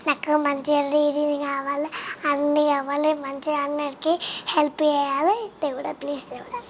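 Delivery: low, even recited prayer; praying to God. Acted. Child shows interviewer how they pray at the temple, low recited prayer. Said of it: "ఎట్లా దేవుడిని ఏం అడుగుతావు".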